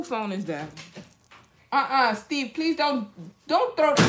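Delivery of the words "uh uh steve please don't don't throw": urgent scolding. Real, not acted. Stopping a child from throwing.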